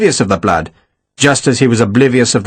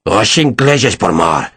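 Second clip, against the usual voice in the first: slow, lower snarled Portuguese; 3 semitones lower than usual. Acted. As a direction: growl the curse, drawn out. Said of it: "Ferragus snarled".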